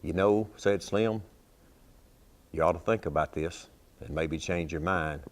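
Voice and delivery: easy storytelling cowboy poet cadence; cowboy poem recitation. Acted.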